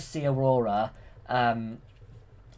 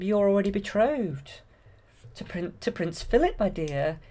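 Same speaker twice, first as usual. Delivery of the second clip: higher, lightly voiced fairy; 8 semitones higher than usual. Fairy telling Aurora of her betrothal, in a higher voice. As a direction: say it gently up high like a fairy. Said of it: "She said".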